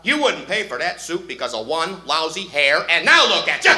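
loud mock outrage, building; angry yell. Manager catching the customer, shouting furiously. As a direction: bellow at the cheapskate.

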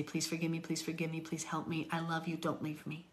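quiet, tender begging to God; hushed desperate plea; soft pleading prayer. Retold or imitated. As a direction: plead softly like a child to a parent. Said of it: "run to his arms and say".

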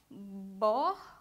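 "borboleta" split slowly as bor, bo, le, ta; syllable by syllable. Shown as a demonstration. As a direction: say "borboleta" in four separate beats with pauses. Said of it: "o B e o O tá na primeira sílaba". ("borboleta" pausadamente, separando cada sílaba)

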